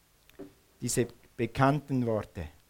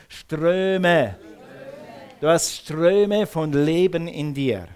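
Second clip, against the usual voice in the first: Ströme said with more force, falling at the end; stronger; slower than usual. Shown as a demonstration. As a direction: put more push into Ströme, like a call to the congregation. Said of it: "Sag nochmal stärker". (Ströme kräftiger gesagt)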